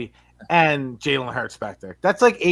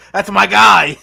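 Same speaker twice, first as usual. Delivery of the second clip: laughing; 6 semitones higher, 10 dB louder, slower than usual. Real, not acted. Laughing while quoting.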